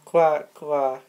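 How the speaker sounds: hammed-up duck quacking. Mister Duckface the toy duck butting in, mock quacking.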